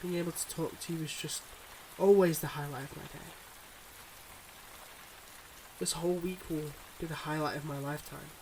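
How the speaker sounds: measured, heartfelt confession with long pauses; earnest secret-life lover. Acted. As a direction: confess gently but seriously, pausing between thoughts. Acts a secret-life lover's farewell.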